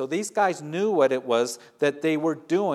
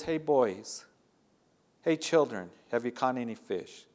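tender call. Retold or imitated. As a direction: ask like a patient loving father. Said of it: "he's showing his patience and his love".

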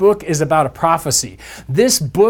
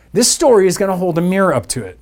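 normal talking voice

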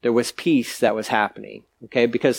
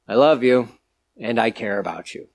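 gentle voiced God; 3 semitones lower than usual. God's tender words voiced.

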